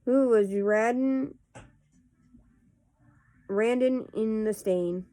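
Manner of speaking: casual read-aloud of nonsense verse; poetry reading. Acted. Host reading Runny Babbitt poems to viewers, measured poetry reading. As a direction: read silly verse line by line, with pauses.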